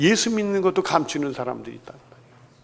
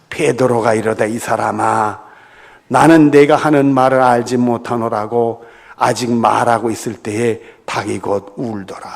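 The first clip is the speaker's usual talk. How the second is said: scripture reading; 3 semitones lower, 4 dB louder than usual. Acted. Pastor reading the congregation the passage on Peter's denial, formal. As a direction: read the verse out formally.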